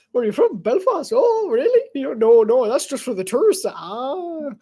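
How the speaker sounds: animated, lilting Irish back-and-forth; Irish accent. Acted. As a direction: play both sides in an Irish accent. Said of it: "a deeper Irish accent".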